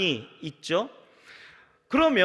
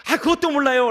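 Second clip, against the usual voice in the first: loud, high annoyed snap; irritated scoff; 8 semitones higher, 8 dB louder than usual. Retold or imitated. A grown child snapping at a parent who asks, loud and annoyed. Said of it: "핀잔하고 짜증 부리지 마시고요".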